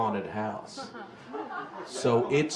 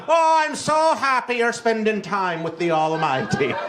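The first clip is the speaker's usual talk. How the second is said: high, louder gushing churchy mother; 10 semitones higher, 6 dB louder than usual. Retold or imitated. Mother delighted her son goes to church, high gushing voice. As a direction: gush sweetly like a proud pious mum. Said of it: "my mother'd be like".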